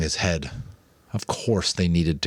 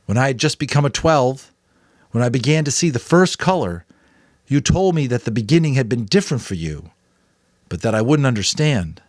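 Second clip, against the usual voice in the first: higher, louder youthful worry; Jonas, anxious boy; 7 semitones higher, 6 dB louder than usual. A narrator's reading. Jonas telling the Giver it is no use, anxious. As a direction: protest that it is hopeless.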